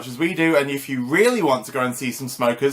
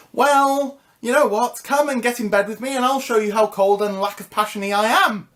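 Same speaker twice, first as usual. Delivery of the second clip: flirty; 6 semitones higher than usual. Real, not acted. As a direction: dare them flirtatiously. Flirty challenge.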